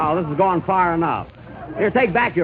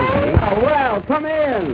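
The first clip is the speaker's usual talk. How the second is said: surprised oh; 10 semitones higher, much slower than usual. Acted. Surprised high greeting to visitor.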